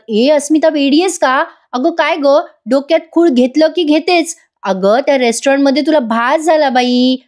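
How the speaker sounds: lightly voiced irritated mother scolding her daughter; a hint of an exasperated mum telling her daughter off; mild scolding mother. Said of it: "कल्पनाताई चिडतात". (मुलीला हलकेसे रागावणारी आई)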